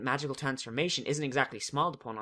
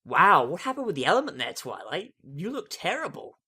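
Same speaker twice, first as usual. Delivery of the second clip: 1 tag only: Rainbow Dash voice; 3 semitones higher, 3 dB louder than usual. Acted. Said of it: "says Rainbow Dash".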